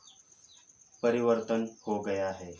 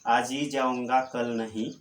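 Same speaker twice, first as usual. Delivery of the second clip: आज hit louder at the start; stress on आज; 3 dB louder than usual. Shown as a demonstration. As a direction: lean on the word आज, then ease off. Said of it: "आज शब्द पर बल दिया जाए". (आज पर ज़ोर देकर)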